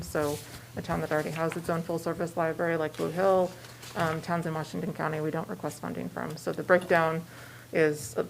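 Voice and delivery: muffled by a mask; words muffled behind a mask; through a face mask. Real, not acted. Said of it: "I'm a little muffled with mask".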